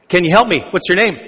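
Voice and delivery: lightly voiced radio DJ, upbeat; a hint of a chatty radio host; Robin Williams DJ. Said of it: "Robin Williams is this D J".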